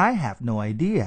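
"I have no idea" with English stress and a melodic rise; English intonation. Shown as a demonstration. Teacher modelling for careful listeners, English intonation. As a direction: stress "I" and "idea", let the tune move. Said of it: "ถ้าเราฟังดีๆ เนี่ย มันเป็น".

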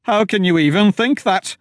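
high loud horrified shout; appalled cry at the others. Acted. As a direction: Wilmer shouts at the treasure seekers. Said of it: "Wilmer shouted".

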